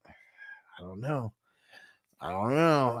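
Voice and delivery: a near-silent whisper, thinking aloud. Real, not acted. Streamer whispers his doubt to the chat.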